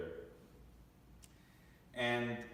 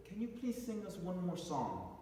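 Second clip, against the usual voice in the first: mildly voiced wife; 4 semitones higher, 5 dB quieter than usual. Wife's request retold.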